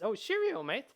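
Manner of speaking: high-pitched cheery rabbit catchphrase; rabbit companion. Acted. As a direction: chirp it like a canned game line. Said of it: "and the rabbit says".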